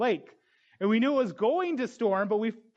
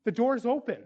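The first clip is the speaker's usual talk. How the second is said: proclaiming; 5 semitones higher, 3 dB louder than usual. Acted. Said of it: "we tell the world".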